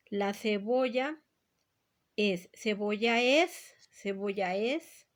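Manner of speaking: cebolla es with the final a and es blended into one syllable; vowels joined together. Shown as a demonstration. Teacher showing a synalepha, cebolla es blended into one syllable. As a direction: glide cebolla es into one sound. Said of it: "Fíjate bien".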